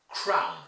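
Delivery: "Crown" with a full ow glide; diphthong in ow. Shown as a demonstration. Teacher models a hard sound for students, "Crown" with ow diphthong. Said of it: "This is a diphthong in ow".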